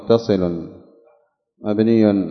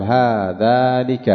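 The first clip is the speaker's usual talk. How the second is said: slow demonstration; much slower than usual. Shown as a demonstration. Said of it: "فتقول".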